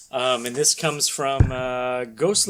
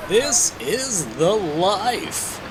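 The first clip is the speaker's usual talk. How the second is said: lazy hero; 3 semitones higher, much slower than usual. Acted. Hero lazing on the beach.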